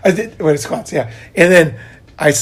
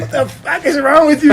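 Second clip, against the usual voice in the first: retold screaming; 10 semitones higher than usual. Witness scolding the lifter after his accident, mock screaming. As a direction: imitate an alarmed man yelling a scolding. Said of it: "He's yelling".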